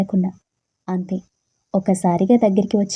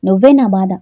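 louder, pent-up outburst; the loud cry she held back; wanting to shout; 6 dB louder than usual. Retold or imitated. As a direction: let the bitter accusation burst out. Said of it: "గట్టిగా అరవాలి అనిపించింది".

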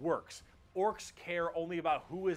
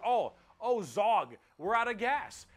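high, loud panicky grunt of an orc; 5 semitones higher, 5 dB louder, slower than usual. Acted. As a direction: play a panicking orc yelling to the boss. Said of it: "some orc behind you, like".

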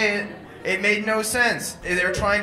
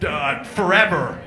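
mock preacher. A man scares listeners about hell, mock menacing. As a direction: make up the threat on the spot. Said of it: "Some guy was like".

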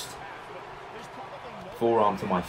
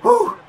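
relieved whew; 8 dB louder than usual. Real, not acted. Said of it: "I'm out of breath".

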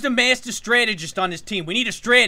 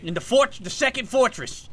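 ordinary talk, nothing marked

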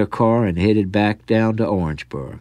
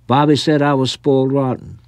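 put-on high whiny little boy tattling; a spoiled kid telling on his cousin; 6 semitones higher than usual. Spoiled boy tattling to his aunt, high and whiny.

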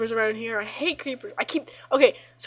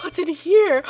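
louder, higher replayed curious question; 6 semitones higher, 9 dB louder, slower than usual. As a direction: replay the moment with more lift. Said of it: "I'm like".

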